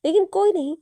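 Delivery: sudden loud and high angry burst; furious villain flaring up; angry outburst. A narrator's reading. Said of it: "गुस्से में देखकर बोलता है".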